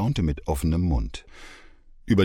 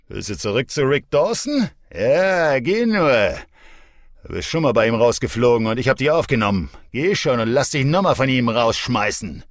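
high, loud, fast ranting; angry yelling; 8 semitones higher, 6 dB louder than usual. Acted. Drunk boyfriend yelling at the mother who leaves him. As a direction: spit the insults at her, fast.

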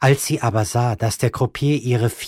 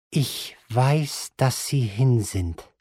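furious calm; slower than usual. Acted. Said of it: "mit einer Art wütender Ruhe".

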